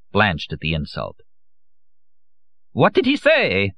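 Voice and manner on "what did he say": high, frantic panicked question; shrill with hysteria, much higher; hysterical. A narrator's reading.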